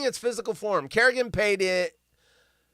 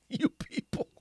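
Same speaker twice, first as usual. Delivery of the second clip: whispered aside; 7 semitones higher, 8 dB quieter than usual. Real, not acted.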